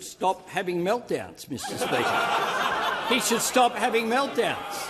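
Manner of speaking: laughing through the jibe. Real, not acted. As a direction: chuckle while you taunt. Prime Minister laughing at the opposition.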